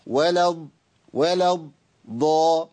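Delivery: ولا الضا with the lam going straight into a held, doubled ض; doubled Dad. Shown as a demonstration. Teacher shows both Dads, الضا with a held doubled ض. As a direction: close ولا onto a still ض, then release ضا. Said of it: "أولها ساكن".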